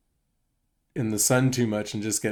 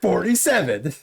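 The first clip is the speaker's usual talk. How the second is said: laughing through it; 5 semitones higher than usual. Retold or imitated. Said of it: "And I said".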